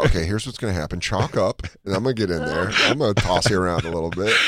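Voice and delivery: bossy climbing coach. Retold or imitated. Climbing partner instructing.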